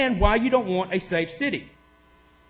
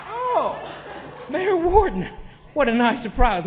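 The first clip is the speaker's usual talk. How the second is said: mock surprise; 4 semitones higher, slower than usual. Real, not acted. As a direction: greet the absent mayor with a jab. Mayor arrives, sarcastic greeting.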